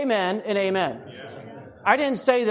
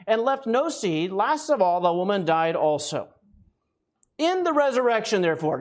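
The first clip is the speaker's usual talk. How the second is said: scripture reading. Acted. Reads scripture aloud.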